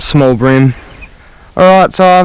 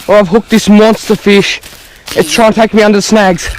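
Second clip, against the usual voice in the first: excited and hurried, higher pitch; fighting a fish; 5 semitones higher than usual. Real, not acted. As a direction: rush the words while reeling in a fish. Reeling in a big fish.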